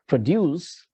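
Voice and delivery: pro-DUCE, like the verb; "produce" with a stressed DUCE; stress on second syllable. Shown as a demonstration. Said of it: "then it will be a verb".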